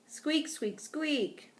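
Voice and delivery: high, small squeaky voice; tiny rodent squeaking out words; hamster squeaks. A narrator's reading. Trapped hamster as humans would hear it, squeaking. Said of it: "probably sounded like".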